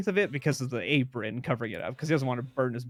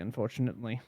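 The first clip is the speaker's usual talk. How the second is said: put-on Scottish accent; 2 semitones lower, 5 dB quieter, faster than usual. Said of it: "I know it's a terrible Scottish accent".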